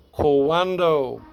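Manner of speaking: cuando with the A drawn out and stressed, not the U. Shown as a demonstration. Teacher showing where the accent goes, cuando stressed on A. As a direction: lean on the A in cuando. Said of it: "U doesn't carry the accent here".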